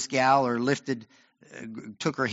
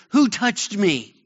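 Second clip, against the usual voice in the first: slow, raised call into the crowd; 6 semitones higher, 6 dB louder, slower than usual. Acted. Jesus calls out to the pressing crowd, a slow raised cry. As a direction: lift it over the noise, slowly. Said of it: "Jesus cries out and says".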